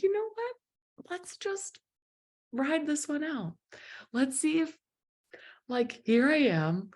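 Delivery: high-pitched, drawn-out mock resolve; retold tearful self-talk. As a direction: act out talking yourself into it, high and slow. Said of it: "I'm crying and I'm laughing".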